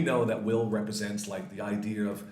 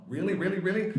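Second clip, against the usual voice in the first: put-on excited kid; 8 semitones higher, faster than usual. Excited kid's reply.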